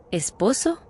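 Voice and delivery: mild mock disbelief, rising at the end; shocked echo. The narrator echoes her word in mild mock shock. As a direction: echo the word as if choking on a beer. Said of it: "Casi me atraganto con la cerveza".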